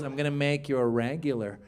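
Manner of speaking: lightly imitated club owner, low-key; Mitzi. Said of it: "That's how she would talk".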